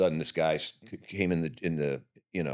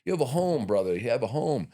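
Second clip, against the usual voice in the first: buddy's voice; 8 semitones higher than usual. Retold or imitated. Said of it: "he was like".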